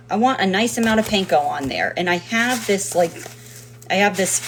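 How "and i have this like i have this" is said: ordinary delivery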